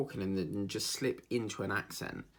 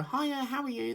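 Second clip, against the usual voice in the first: much higher, sugary mock greeting; imitating a fake-nice carer. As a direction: put on a two-faced sweet hello. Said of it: "And she'll go".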